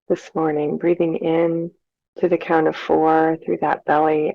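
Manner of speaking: calm, unhurried meditation guide with long pauses; measured, soothing breathing instruction; guided meditation. Real, not acted. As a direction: lead listeners gently through their breathing, leaving space between phrases.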